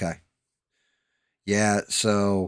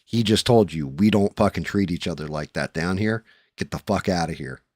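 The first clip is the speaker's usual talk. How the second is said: loud threat; 4 dB louder than usual. Retold or imitated. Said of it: "and they're like".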